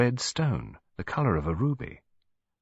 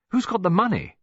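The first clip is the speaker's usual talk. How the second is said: very high, louder demand; 12 semitones higher, 4 dB louder than usual. A narrator's reading. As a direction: ask bossily. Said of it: "demanded David".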